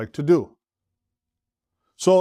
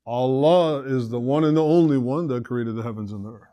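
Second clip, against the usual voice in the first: weight on "Allah" and "only one", then taper; Allah in all caps. Shown as a demonstration. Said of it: "like putting this in all caps".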